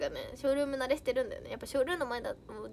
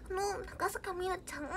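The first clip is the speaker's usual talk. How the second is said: high, soft, slow put-on voice; fake natural voice; 6 semitones higher, 7 dB quieter than usual. Shown as a demonstration. Streamer showing fans her joke natural voice, put-on and high. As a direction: draw it out softly in a higher, affected tone. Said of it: "みたいなのが地声だよっていうネタを".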